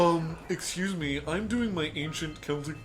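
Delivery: slow, mock-snotty politeness. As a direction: put on a drawn-out, self-important tone. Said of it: "get real fucking snotty with it".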